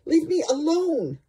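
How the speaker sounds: a cat who wants to be left alone, high and drowsy. Retold or imitated. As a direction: voice the grumpy cat just woken up. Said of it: "She goes".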